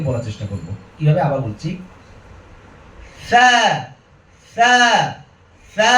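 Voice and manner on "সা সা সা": "সা" as a light th off the tongue tip; touch the teeth gently for "সা"; soft lisped "সা", last one long; soft, weak tha. Shown as a demonstration. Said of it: "আলতো করে".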